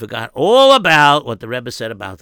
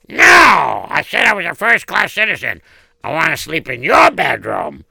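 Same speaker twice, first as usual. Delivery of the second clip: demanding shout; 4 dB louder than usual. Acted. Beggar demands the bed.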